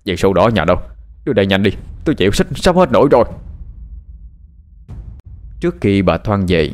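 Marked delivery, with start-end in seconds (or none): 0.1-3.2 urgent demand. Acted. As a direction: press hard for it, out of patience. Addict son demands the house deed. (hối thúc, sốt ruột)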